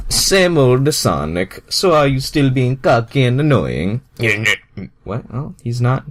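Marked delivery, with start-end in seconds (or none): 0.1-4.0 Mario voice. Acted. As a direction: play Mario, ribbing his friend. Mario voice in read story.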